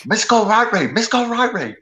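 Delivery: high, loud mock Japanese accent. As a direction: put on a caricatured Japanese accent. Japanese caricature from the movie.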